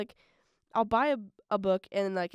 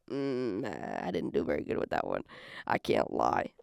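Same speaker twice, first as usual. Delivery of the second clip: mock deep confession. Jokingly admits failing a goal.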